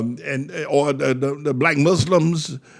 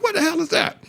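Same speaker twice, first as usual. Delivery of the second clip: very high mocking voice; pinched-nose mockery; faster than usual. Preacher mocking men seen on television, pinched-nose voice. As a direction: squeal it in a squeezed, mocking voice. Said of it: "They all sound like".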